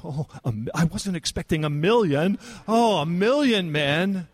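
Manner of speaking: a playful, slowed-down gasp of surprise at the size of the army; mock surprise. Preacher voicing the Lord surprised by a million men, mock astonished. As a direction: act out a God who never saw this coming, tongue in cheek.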